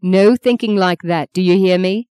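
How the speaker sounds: firm, insistent motherly order; stern. Acted. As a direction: forbid such thinking, mildly stern. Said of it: "said Maggie sternly".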